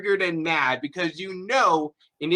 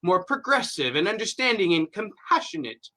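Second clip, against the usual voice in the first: mocking tut-tut. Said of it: "This kind of tut-tutting".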